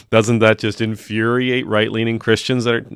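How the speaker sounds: hammed-up gloating jab; mock taunting. Host pretending to bait right-leaning Christians, gloating taunt. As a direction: rub it in like a playful troll. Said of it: "See what I'm doing there?".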